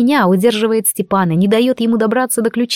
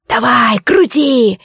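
hissed; 2 semitones higher, much slower than usual. Acted. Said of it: "прошипела нечисть".

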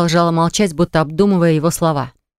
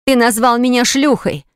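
higher, pained outburst; shouted accusation; 6 semitones higher than usual. A narrator's reading. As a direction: throw the accusation at him. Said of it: "выкрикнула она".

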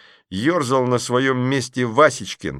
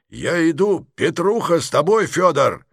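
mild heroic shout; 7 semitones higher, 3 dB louder than usual. Acted. Film character shouting.

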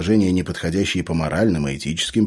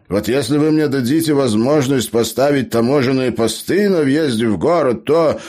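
gnome, proposing schemes; 8 semitones higher, 5 dB louder than usual. Acted.

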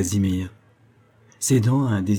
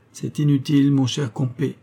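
gently smiling; 5 semitones higher than usual. A narrator's reading. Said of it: "reprit-il en souriant doucement".

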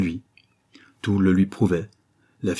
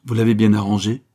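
laughing; 2 semitones higher, 6 dB louder than usual. Acted. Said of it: "elle ajouta en riant".

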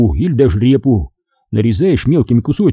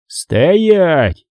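sharp, raised barked order; barked command; 6 semitones higher than usual. Acted. Sergeant barking at brawling soldiers to stop. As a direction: bark it to stop the fight. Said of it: "Фомичёв рявкнул".

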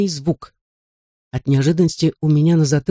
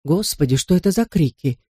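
astonished. Acted. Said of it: "изумлённо вопросил".

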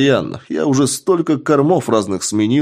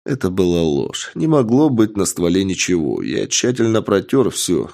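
usual speaking voice

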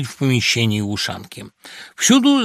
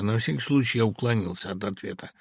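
plain reading voice

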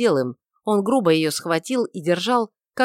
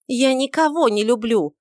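higher, louder defiance; angry defiant cry; 6 semitones higher, 4 dB louder than usual. A narrator's reading. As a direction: throw it back at him. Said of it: "закричала она сердито и вызывающе".

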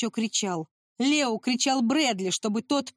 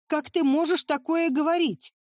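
higher-pitched mock shout; 6 semitones higher than usual. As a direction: throw it back at him, outraged. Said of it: "закричал Брэдли". (закричать, голос выше)

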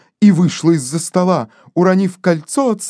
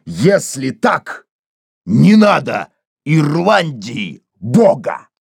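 lower, slow and heavy; gruff defiance; 4 semitones lower, slower than usual. Acted. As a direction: spit the defiance out low. Casey answers furious woman. (Кейси гневно отвечает Денти, низко и медленно)

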